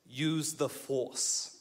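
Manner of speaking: mock Jedi line. Trainer leaning in to the struggling lifter, slow solemn intoning. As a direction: lean in and intone it like a wise mentor. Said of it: "he leans in, he goes".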